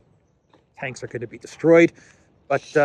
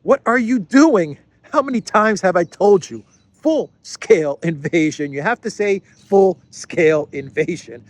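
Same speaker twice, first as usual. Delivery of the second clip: higher, louder mock scolding editor; exasperated editor; 5 semitones higher, 6 dB louder than usual. Editor scolding the journalist over his wording, exasperated mock scold. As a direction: snap at the reporter like a fed-up boss. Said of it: "and the editor's like".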